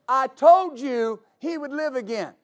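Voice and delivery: exasperated, stretched-out reminder; frustrated. Acted. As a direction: press "told you" with frustration. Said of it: "out of frustration".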